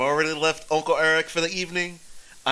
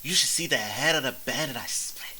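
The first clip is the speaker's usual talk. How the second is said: put-on drunk boast; 2 semitones higher than usual. Drunk hero boasting about a bandit's head. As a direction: brag like a happy drunk.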